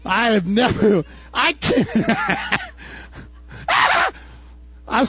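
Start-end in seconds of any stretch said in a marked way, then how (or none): 1.9-2.7 high laugh. Real, not acted. Laughs at own fear.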